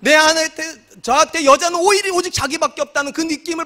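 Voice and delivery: emphatic. Real, not acted. Emphatic sermon point.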